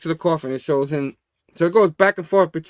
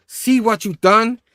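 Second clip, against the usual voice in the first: slow, raised-pitch accusation; drawn-out mock-dramatic reproach; accusing; 5 semitones higher, slower than usual. Kraven trapped in the coffin, accusing.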